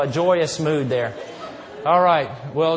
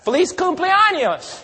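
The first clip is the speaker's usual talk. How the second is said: cheery Spanish greeting; 9 semitones higher than usual. Retold or imitated. Greets Hispanic party in Spanish.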